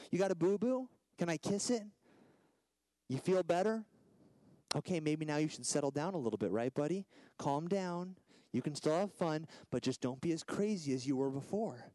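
put-on soothing talk to a small child; imitated tender fatherly coaxing; gentle dad. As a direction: reassure a hurt little boy, easing him down. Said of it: "I restore him gently".

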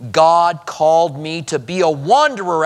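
touch of pride, lifting on wanderer; as if privileged. Acted. Preacher voicing what Abraham doesn't say, as if privileged. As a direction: say it like an honour you were given. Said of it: "as if it's a privilege".

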